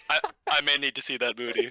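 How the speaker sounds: inquisitive. Retold or imitated. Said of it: "he said it so inquisitively".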